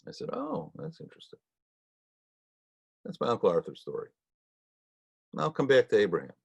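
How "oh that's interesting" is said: whispered aside. Retold or imitated. Feigned interest at aunt's reply.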